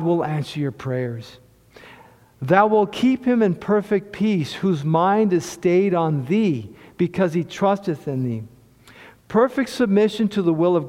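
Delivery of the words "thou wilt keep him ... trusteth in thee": measured, solemn reading of the verse; preacher reciting Isaiah to the church; scripture recitation. Acted. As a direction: recite it like holy writ. Quotes scripture to congregation.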